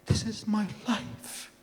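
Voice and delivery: high, strained cries of betrayal; retold anguished screaming. To his best friend who tore the book, screaming in anguish. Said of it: "I started screaming".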